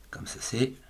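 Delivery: breathy whisper under the breath; whispered aside. Real, not acted. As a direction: whisper it to yourself while writing. Teacher writing, aside under breath.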